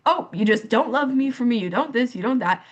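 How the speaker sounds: retold wounded accusation, lightly acted; upset. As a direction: imitate an upset, reproachful rant. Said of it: "I was so upset".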